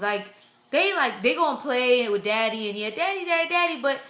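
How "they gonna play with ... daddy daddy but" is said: high-pitched, delighted argument; excited gushing. Retold or imitated. Mother-to-be imagining her son choosing mommy, excited gushing. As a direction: climb higher as you win the point.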